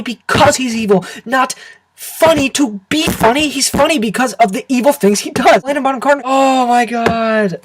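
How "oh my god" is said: exasperated groan. Real, not acted. Groaning about Helena Bonham Carter.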